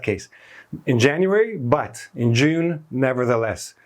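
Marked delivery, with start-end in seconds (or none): 1.6-2.8 June drawn out slowly and leaned on; stress on June. Shown as a demonstration. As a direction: lean hard on June, slowly. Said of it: "to show balanced contrast, emphasized contrast".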